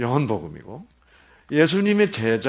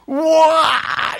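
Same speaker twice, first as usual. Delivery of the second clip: excited shout; 10 dB louder, much slower than usual. Retold or imitated. Sudden joy at found answer.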